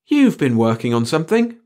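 high, loud incredulous question; exclaiming. A narrator's reading. Pringle hearing the chief claim their work, exclaiming. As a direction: challenge him in astonishment, pitch jumping up. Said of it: "Pringle exclaimed".

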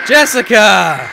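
loud, stretched call in own voice; playful calling out. Pretend. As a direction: holler the name slowly at normal pitch. Calling out to imagined Jessica.

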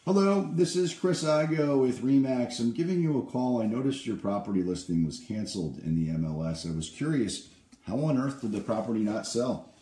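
bright, friendly salesman on the phone; upbeat cold-call pitch. Acted. Realtor cold-calling an expired-listing owner, upbeat sales pitch.

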